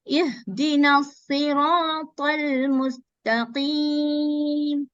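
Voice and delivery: ihdina siratal mustaqim slowly chanted; slow recitation. Shown as a demonstration. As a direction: recite slowly, joining ta with lam. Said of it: "Fatha and join with the lam".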